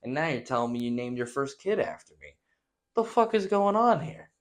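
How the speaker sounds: exasperated retort, climbing to a high yell at the end; indignant and baffled, building up; a put-upon Biden voice cracking high on the last line; mock outraged Biden. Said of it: "It's like".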